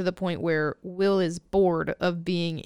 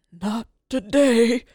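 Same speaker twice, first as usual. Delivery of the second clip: put-on perky old man; 3 semitones higher, 5 dB louder, slower than usual. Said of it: "lights up and says".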